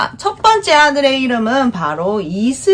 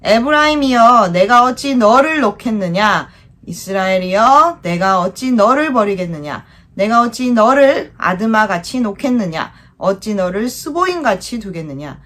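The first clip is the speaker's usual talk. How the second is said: recitation. Shown as a demonstration. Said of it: "시작!".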